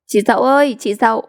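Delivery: trêu chọc gọi; sing-song teasing call; mocking call. (giọng trêu chọc)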